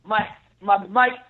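trash-talking heel, lightly voiced; wrestling promo. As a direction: keep cutting the promo, taunting. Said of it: "cut a promo for one minute".

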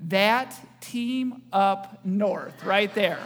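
very slow, deliberate naming of the rival; mock pronunciation demo. Shown as a demonstration. Pastor teaching the congregation to say Michigan, slow teasing demo. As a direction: drag it out as a teasing correct pronunciation. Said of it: "This is how you say it".

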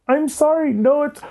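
high, squeaky mock apology; retold mortified apology. Storyteller replaying an embarrassed apology, high and flustered.

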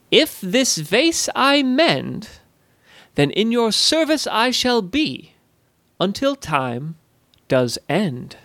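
high, slow, sing-song goblin voice; solemn rhyming pledge. Acted. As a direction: intone the rhyme like a ritual vow. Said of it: "not in a threatening way".

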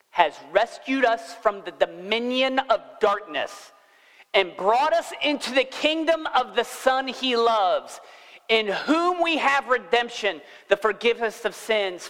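slow, emphatic Bible reading; scripture proclamation. Acted. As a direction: read the verse out with rising fervour. Reads scripture aloud to congregation.

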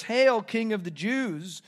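slow, mildly sarcastic hail; a touch of sarcasm, drawn out; jeering tone. Retold or imitated. Imitating soldiers who hail a king they scorn, jeering. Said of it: "said it with a jeering tone".

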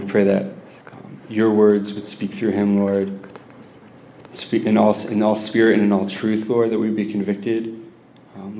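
earnest public prayer in measured phrases; projected, heartfelt intercession. Real, not acted. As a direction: pray aloud over the speaker. Leads prayer for speaker.

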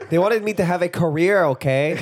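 lightly hammed-up foreign accent; slightly whiny put-on accent; Tommy Wiseau accent. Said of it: "you're starting to sound more like Tommy Wiseau".

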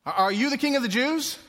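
high, loud incredulous question; questioning Pilate. Acted. Pilate interrogating Jesus, high incredulous question.

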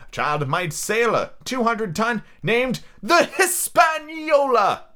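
high, theatrical squire voice; excitable letter-writing squire. Acted. Squire writing to his doctor friend about the schooner, excitable. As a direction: read the letter out grandly, swelling on key names.

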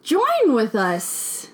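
very slow, drawn-out 'Join with us'; slow Yoda-ish phrasing. Acted. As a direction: stretch it out like a wise old master. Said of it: "You're Yoda".

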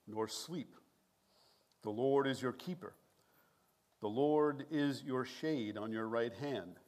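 measured, reverent reading of the psalm; a pastor reading a psalm to his congregation, solemn; scripture reading. Acted. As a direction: read it like a pulpit lesson, steady and solemn. Reads psalm aloud before prayer.

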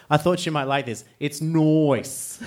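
mock Australian accent. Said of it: "He impersonates me".

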